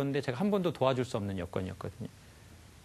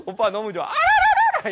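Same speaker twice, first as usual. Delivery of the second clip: louder, laughing, then a very high trilled ululation; delighted wife; 10 dB louder than usual. Retold or imitated. Wife thrilled to see her husband, ending in a high ululation. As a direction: gush with joy, then trill it out. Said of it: "이렇게 하는 거죠".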